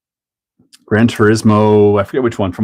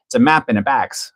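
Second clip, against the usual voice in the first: put-on Wisconsin accent; 2 semitones higher, 3 dB quieter than usual. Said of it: "the lady's like".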